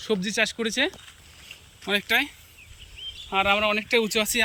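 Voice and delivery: out of breath from the climb; panting between words; heavy breathing. Real, not acted. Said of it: "আমি হাঁপিয়ে গেছি, কথা বলতে পারছি না". (হাঁপাতে হাঁপাতে বলা)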